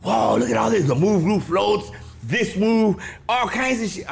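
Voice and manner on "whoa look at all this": much higher, wowed; a retold blown-away kid; awestruck. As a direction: gush at what you see. Watching the show amazed.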